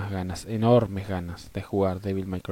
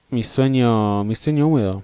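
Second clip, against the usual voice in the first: excited; 8 dB louder than usual. Real, not acted. Raving about Persona 3.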